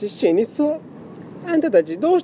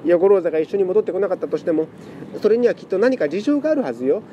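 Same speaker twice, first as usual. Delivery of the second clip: tearful pleading; 4 semitones higher than usual. Acted. Lament cat pleads emotionally.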